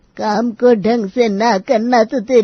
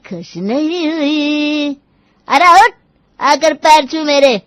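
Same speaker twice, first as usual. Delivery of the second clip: commanding; 4 semitones higher than usual. Acted. Grandmother orders daughter-in-law.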